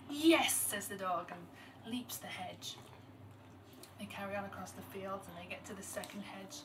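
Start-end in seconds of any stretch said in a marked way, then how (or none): 0.1-0.5 high, loud exclaimed yes; storyteller voicing a gratified dog; delighted dog. A narrator's reading. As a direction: burst out with pleased approval. Dog delighted at the sweet name.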